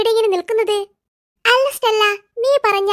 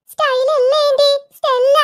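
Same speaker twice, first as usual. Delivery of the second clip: higher-pitched, impatient correcting; exasperated correction; 6 semitones higher than usual. Acted. Youngster correcting aunt's wrong name, exasperated. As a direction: put the aunt right on the name.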